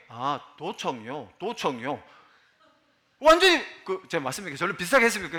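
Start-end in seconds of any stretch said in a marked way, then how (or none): 0.1-2.0 Jeolla local reply. Retold or imitated. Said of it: "그냥 한참 얘기해".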